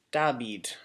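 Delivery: Dabid with b for v and an ee in the last syllable; Greek-style Dabid, "dah-BEED"; Greek pronunciation. Shown as a demonstration. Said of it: "something like that".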